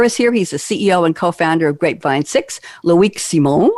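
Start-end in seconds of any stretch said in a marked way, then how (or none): 2.8-3.7 French accent. Shown as a demonstration. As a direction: say the name the French way. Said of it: "I'm doing my French accent".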